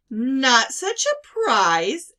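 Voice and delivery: slow, loud mock-offended tease; teasing uncle. A narrator's reading. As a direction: play hurt pride, teasing slowly.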